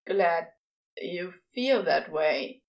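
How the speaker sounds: slow, hesitant start; halting. Acted. Crowley starts his confession, slow and halting. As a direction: ease in like the words are hard. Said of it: "he begins haltingly".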